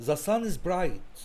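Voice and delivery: very slow, word by word; slow dictation. Shown as a demonstration. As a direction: read the example slowly for the class. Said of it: "طب تاني مثال". (قراءة بطيئة للمثال)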